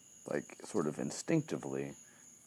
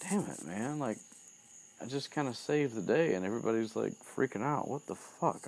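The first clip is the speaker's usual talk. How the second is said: mock exasperated; 7 semitones higher than usual. Retold Harry baffled at everybody's reaction.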